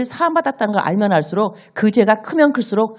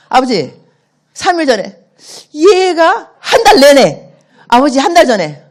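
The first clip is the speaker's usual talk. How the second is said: tearful, slow, higher pleading; crying child; 6 semitones higher, 8 dB louder, slower than usual. Acted. Child tearfully begging father's forgiveness yet again, crying. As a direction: sob out the apology once more.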